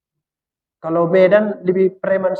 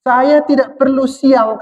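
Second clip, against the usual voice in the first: slow, raised and solemn as God speaking; God declaring calmly to man, slightly higher; 4 semitones higher, slower than usual. Acted. Preacher voicing God to his listeners, slow and solemn. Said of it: "kata Tuhan".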